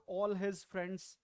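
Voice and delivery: slow, careful example. Shown as a demonstration. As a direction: say the phrase slowly. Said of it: "If you speak like this".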